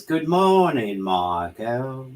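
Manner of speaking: lightly creepy greeting; creepy delivery. Retold or imitated. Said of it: "That was pretty creepy".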